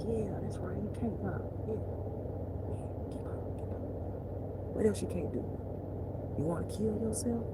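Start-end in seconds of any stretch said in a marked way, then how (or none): 0.1-3.8 hushed, breathy devil goading a sad person; whispering devil. Retold or imitated. Devil goads a despairing person, whispering. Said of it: "The devil like".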